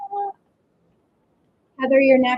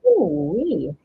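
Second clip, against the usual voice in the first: winded exhale; 3 semitones lower, 4 dB louder than usual. Real, not acted. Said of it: "I'm, like, out of breath".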